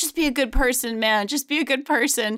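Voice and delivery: mock crying, put-on tearful pleading voice. Retelling a woman's words, imitating someone crying. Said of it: "as she's like crying to Joe Rogan".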